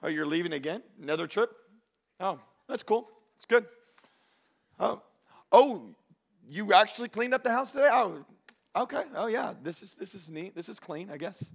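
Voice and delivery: mock sweetness with a sting; a hint of sarcastic spouse; passive-aggressive. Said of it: "passive-aggressive comments".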